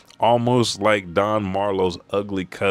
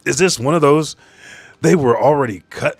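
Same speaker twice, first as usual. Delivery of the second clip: excited realization; 7 semitones higher, 6 dB louder than usual. Real, not acted. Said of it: "realizing a trope".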